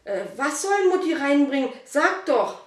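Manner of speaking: put-on high, loud, eager child voice; can't wait to know what it is; excited boy. Boy pressing his mother to tell him, excited and high. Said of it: "Dominik war ganz aufgeregt".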